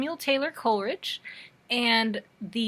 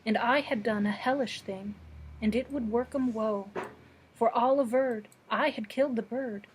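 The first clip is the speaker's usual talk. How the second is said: measured, deliberate verse recital; poetry reading; 4 dB quieter than usual. Acted. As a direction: read it as an old ballad, phrase by phrase. Reads a poem aloud.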